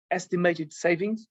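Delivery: "estimated" said slowly and deliberately; slow, careful emphasis on "estimated"; stress on estimated. Real, not acted. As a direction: lean on the word "estimated", drawing it out. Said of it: "and I stress the, the word, uh, estimated".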